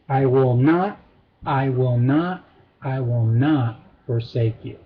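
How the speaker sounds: low, measured stress on each NOT; triple assurance. Shown as a demonstration. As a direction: build three deliberate NOTs, then settle on forsake. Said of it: "making this one a triple assurance".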